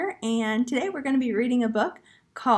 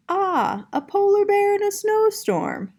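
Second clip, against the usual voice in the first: higher, louder teasing teacher voice; playful teacher; 10 semitones higher, 5 dB louder than usual. Acted. Teacher joking to Vashti about her blank paper, playful and higher. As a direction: tease the blank page like a fond teacher.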